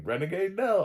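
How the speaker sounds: high, loud sing-out of the title; hammed-up title reveal; mock announcement. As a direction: trumpet it like a surprise promo. Voices the streamer announcing the show.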